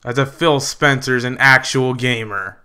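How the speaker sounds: ordinary delivery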